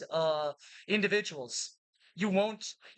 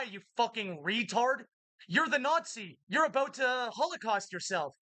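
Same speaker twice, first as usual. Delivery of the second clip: heated ranting; 4 semitones higher than usual. Real, not acted. Ranting at imagined enemy.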